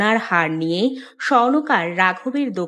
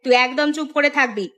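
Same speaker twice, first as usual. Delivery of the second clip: mildly cross nagging; scolding mother. Acted. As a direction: grumble at a lazy child and father. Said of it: "সকালবেলা চিৎকার করতে শুরু করেছো". (মায়ের বিরক্ত বকুনি)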